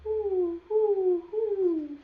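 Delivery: a gentler round of owl hoots; owl hooting. Shown as a demonstration. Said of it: "Can you say that?".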